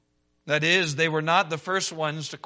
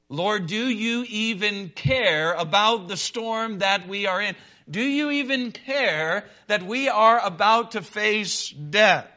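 desperate plea; 4 semitones higher, 4 dB louder than usual. Acted. Disciples crying out in the storm.

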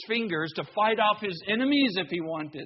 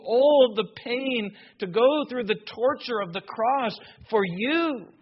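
preacher builds each line toward the cross; building sermon refrain; 4 semitones higher than usual. Acted. Preacher urging his congregation, rising to full-force preaching.

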